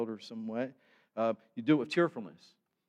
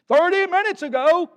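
much higher and louder, exasperated; mock indignant shout; 15 dB louder than usual. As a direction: hammer the complaint like the angry guest. Impatient guest repeats his complaint.

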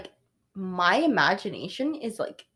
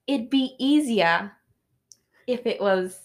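attempted British accent; slower than usual. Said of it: "I've lost it a lot of times".

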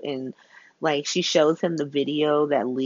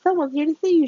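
imitating Kevin; 10 semitones higher, much faster than usual. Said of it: "Kevin was like".

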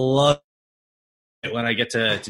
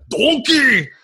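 loud, high punchline shout; mock drunk shout; punchline yell; 12 semitones higher, 8 dB louder than usual. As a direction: bark the punchline. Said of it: "And he goes".

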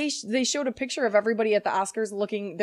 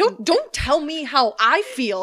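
slow, louder, playfully affronted; mock indignant; 3 semitones higher, 5 dB louder, slower than usual. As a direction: push back slowly with exaggerated hurt pride. Playful quarrel about feelings.

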